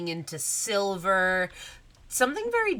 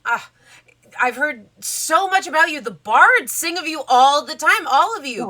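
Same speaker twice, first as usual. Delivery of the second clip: gushing princess voice; 8 semitones higher, 7 dB louder than usual. Acted. GM as Cinderella fawning.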